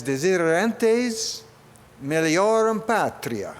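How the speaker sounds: "Desiderentes meliorum patria" said slowly in Italian-style Latin, each syllable drawn out. Shown as a demonstration. Speaker reading the Order of Canada motto to the crowd, in slow Italian-style Latin. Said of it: "I tried to say it like they did, you know, in Italy".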